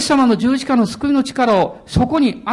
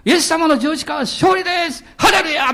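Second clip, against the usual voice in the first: raised, proclaiming shout of praise; loud praise; 5 semitones higher than usual. Shown as a demonstration. Preacher acting out his praise while driving, loud. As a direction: declare it out loud in triumph. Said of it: "大きな声で言います".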